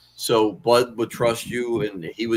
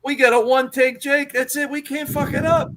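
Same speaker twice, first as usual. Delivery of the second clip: higher, fired-up comeback, pitched well up; worked-up reply to the theater gal; retold heated retort; 14 semitones higher than usual. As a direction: argue back with rising heat. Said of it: "And I said".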